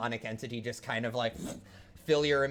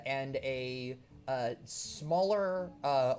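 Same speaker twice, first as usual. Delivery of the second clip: ordinary talk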